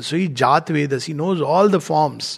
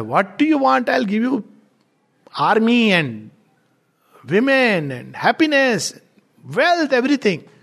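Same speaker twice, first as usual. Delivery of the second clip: Death tempting, higher; 6 semitones higher than usual. Retold or imitated. High-pitched tempting offer.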